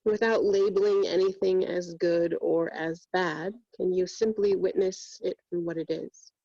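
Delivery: even-pitched meditation voice with long pauses; guided meditation. Real, not acted. Yoga teacher guiding students through breath and body scan, meditative. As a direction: guide them inward steadily, leaving long silences between phrases.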